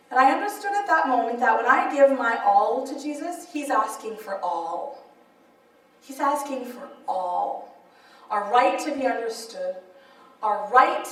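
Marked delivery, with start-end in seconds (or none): 3.5-7.7 slow, lower, hushed repetition; grave, softened, drawn-out delivery; solemn emphasis. Real, not acted. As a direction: let it land softly and slowly. Solemn climax of testimony.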